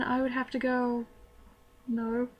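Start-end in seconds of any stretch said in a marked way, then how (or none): 1.9-2.3 short answer in a put-on British accent. Student asked if she's from England, in a fake British accent. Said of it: "Of course, still sounding very, very British".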